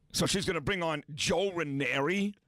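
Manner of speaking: usual speaking voice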